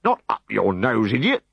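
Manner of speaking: patiently. Acted. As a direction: patiently set the fool straight. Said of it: "he patiently informed".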